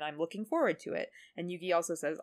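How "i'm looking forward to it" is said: lower, understated take on looking forward; Weevil's reserved anticipation. Retold or imitated. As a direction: say it low-key, as a rival would. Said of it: "they have very different energy".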